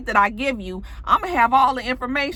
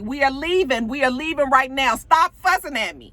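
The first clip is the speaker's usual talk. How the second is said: exasperated retort; 5 semitones higher than usual. Retold or imitated. Acts man snapping back at girlfriend.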